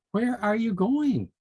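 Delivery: high, slow, curious; curious animal voice. A narrator's reading. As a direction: call out to Sally Squirrel. Birds ask Sally Squirrel.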